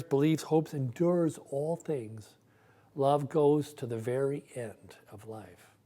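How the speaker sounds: slow, solemn reading aloud of the passage; scripture reading. Acted. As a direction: read it like a Bible lesson from the pulpit. Pastor reads scripture passage.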